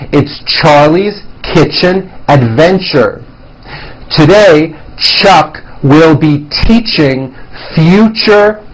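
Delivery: slow, careful reading; reading exercise. Shown as a demonstration. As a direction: read it out slowly, stressing each CH. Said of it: "Let's try this exercise".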